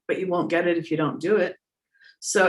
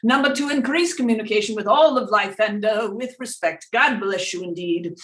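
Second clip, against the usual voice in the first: seance medium; 6 semitones higher than usual. Acted. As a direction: speak as a spirit guide through a medium. Channels Doctor Peebles voice.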